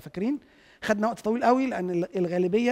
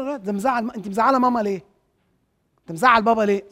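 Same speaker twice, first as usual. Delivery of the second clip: a louder reproachful "مزعل بابا ليه"; mock parent scolding; 5 dB louder than usual. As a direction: scold the child the wrong way, half acted. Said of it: "وتقول له". (أب بيقلد الأهل وهما بيلوموا الطفل إنه زعلهم، بنبرة لوم عالية)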